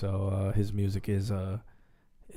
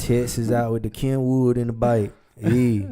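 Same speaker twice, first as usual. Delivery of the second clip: put-on Texas accent. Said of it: "That's my Texas accent".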